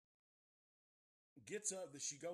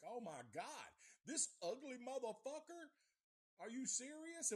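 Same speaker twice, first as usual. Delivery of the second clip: put-on freaked-out kid; 10 semitones higher than usual. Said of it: "I was tripping".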